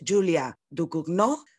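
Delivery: slow, careful attempt at a French name; self-consciously bad French accent; poor French accent. Real, not acted. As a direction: try a French pronunciation, clumsily. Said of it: "por mi francés porque es bastante patético".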